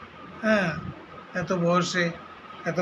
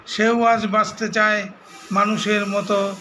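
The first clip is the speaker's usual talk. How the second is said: measured recital, phrase by phrase with pauses; poem recitation. Acted. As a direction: recite the verse line by line, deliberately. Recites his brother's poem. (কবিতা আবৃত্তি, থেমে থেমে)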